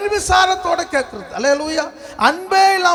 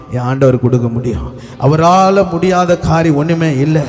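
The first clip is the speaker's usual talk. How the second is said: impassioned preaching; 3 semitones lower than usual. Real, not acted. Preacher promising the congregation God will provide, impassioned preaching. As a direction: proclaim each promise with building force.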